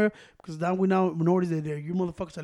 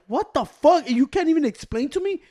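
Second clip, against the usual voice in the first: higher, louder mock outrage at the clerks; retold outrage; 7 semitones higher, 4 dB louder, slower than usual. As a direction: replay the fury, pitched up. Retold outrage at pay station.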